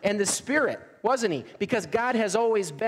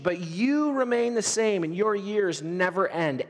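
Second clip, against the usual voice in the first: scripture reading; 3 semitones higher than usual. Acted. Reads Hebrews with rising fervor.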